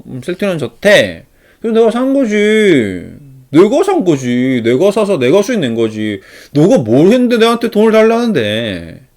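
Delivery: high, loud, drawn-out protest; acted indignant boasting. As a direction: ham up an investor claiming all the credit. Acted investor refuses to share profit.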